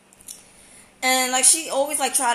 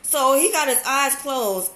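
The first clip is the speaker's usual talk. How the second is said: ordinary delivery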